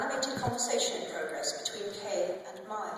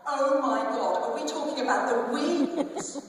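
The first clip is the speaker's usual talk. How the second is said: much louder and higher, thrilled gossip; excited gasp; 8 semitones higher, 10 dB louder than usual. Acted. Samantha recognizing the family at dinner, loud thrilled squeal. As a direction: squeal it out at the juicy news.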